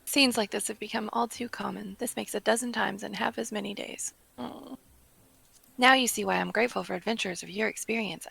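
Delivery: soft, lightly acted world-weary speech; subdued character reading; weary quest-giver. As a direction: read it as a tired, grateful superior. Reads weary quest-giver's dialogue.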